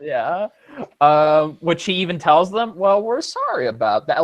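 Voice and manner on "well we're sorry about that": put-on easygoing Southern old man; slow friendly Southern apology; calm Southern drawl. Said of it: "he talks in a calm Southern style".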